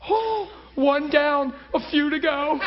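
high, drawn-out comic relief; husband's aside. Retold or imitated. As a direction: stretch it out like a put-on sigh of relief. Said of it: "He's like".

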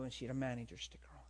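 quick whispered side note; whispered aside. Acted. Preacher slipping a secret detail to the congregation, fast whisper.

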